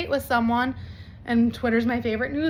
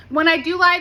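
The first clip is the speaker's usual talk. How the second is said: laughing; 3 semitones higher, 5 dB louder than usual. Real, not acted. Laughing about her lies.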